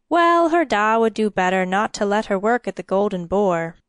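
put-on gossipy old charwoman voice; a chatty cleaning woman clucking over gossip; chatty grumbling charwoman.

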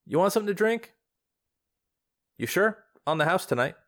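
a grieving woman putting on a brave face; grieving friend. Acted. Ariana offers a drink.

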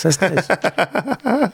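polite feigned amusement; fake amused. Shown as a demonstration. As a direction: pretend to be amused. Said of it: "pretend I'm amused".

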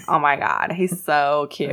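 lightly voiced ditzy girl; a hint of a giggly airhead; dumb girl voice. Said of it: "like, dumb girl voice".

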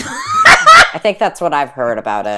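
laughing loud and slow. Real, not acted. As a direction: talk through a big laugh. Laughing at own sex-tape remark.

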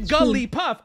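Jigglypuff with an extra "guh" after Jig; extra syllable. Shown as a demonstration. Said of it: "I'm pronouncing it a different way".

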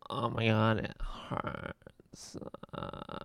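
soft breathy whisper. Retold or imitated. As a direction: breathe it out, barely voiced. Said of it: "but you're like".

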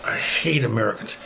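imitated ranting, punching the threats; mock rant in another man's voice; retold angry rant. Robed Arab man rants at the two visiting Americans, imitated anger. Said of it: "He just starts ranting".

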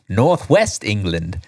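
usual speaking voice

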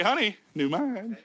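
slow, lightly voiced wife; a patient, understated nudge to a fussing husband; wife's gentle correction. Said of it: "My wife's gonna look at me and say".

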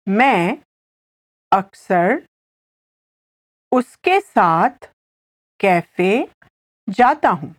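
word by word with long pauses; slow repetition. Shown as a demonstration. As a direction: spell the sentence out slowly for a learner, phrase by phrase. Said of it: "I'll say it again slowly".

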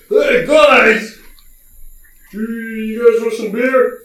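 high, loud, eager shout of a dim tavern oaf; excited oaf. Acted. GM as Elmo greets the party, high eager shout. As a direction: bound up yelling a cheerful offer.

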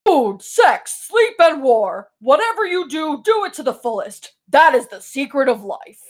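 lightly put-on character voice for a grand quote; Ryder voice. Host reads Ryder's favorite quote in character, lightly declaimed. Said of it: "I'm gonna read it in my Ryder voice".

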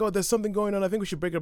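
put-on high-pitched flustered young priest; high fussy young clergyman. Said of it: "it's like".

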